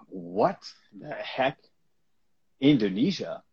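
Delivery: slow, stunned; shocked disbelief. Retold or imitated. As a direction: drag it out in shock. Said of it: "I said".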